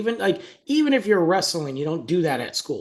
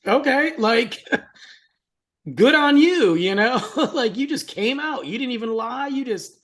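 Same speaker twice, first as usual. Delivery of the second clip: laughing; 8 semitones higher than usual. Real, not acted.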